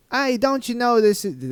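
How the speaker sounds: put-on failed northeastern accent that lands nearer Australian, high and loud; botched northeastern accent. Imitating a forest official for viewers, botched northeastern accent. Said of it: "please forgive my northeastern accent that I'm about to attempt".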